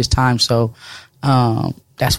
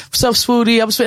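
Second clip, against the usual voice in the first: excited fans; 6 semitones higher than usual. Retold or imitated. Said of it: "when I hear grown men".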